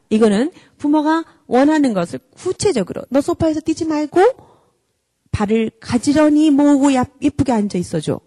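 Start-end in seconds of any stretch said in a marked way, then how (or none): 3.1-8.2 specific gentle request. Shown as a demonstration. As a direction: spell out the wish, patient and friendly. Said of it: "엄마와 아빠가 원하는 것을 구체적으로".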